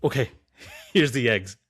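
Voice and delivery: mock surrender with a laugh; lightly voiced giving-in, laughing; Sagar. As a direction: laugh while handing it over sheepishly. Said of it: "And the Sagar goes".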